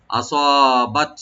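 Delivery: আসাবাত slow with a breathy final তা; whispered ta. Shown as a demonstration. Teacher demonstrates hams on তা. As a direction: release the তা with hams. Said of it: "তাটাকে একটু হামস করবো".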